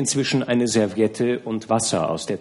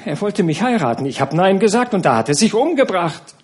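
dazed; 8 semitones higher, 3 dB louder than usual. A narrator's reading. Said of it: "wiederholte ganz dumm".

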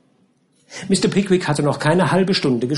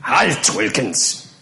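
stern captain; 2 semitones higher than usual. Acted. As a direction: bark orders at the gardener. Captain gives new order. (herrischer Captain)

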